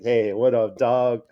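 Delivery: lightly acted bro hello; dude to dude. Shown as a demonstration. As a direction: greet your homie casually but loud. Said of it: "a dude saying it to another dude".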